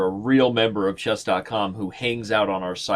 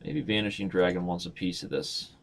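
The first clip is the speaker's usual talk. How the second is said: low, coaxing challenge; quiet coaxing dare; teasing dare; 3 semitones lower, 4 dB quieter than usual. Pretend. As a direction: coax the viewer into a match. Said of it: "Let's see if Va".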